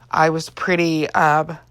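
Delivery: yawning while talking. Real, not acted. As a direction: talk through a yawn. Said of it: "I keep yawning".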